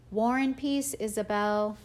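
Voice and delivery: dad calling back while walking away; called out. A narrator's reading. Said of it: "he called out".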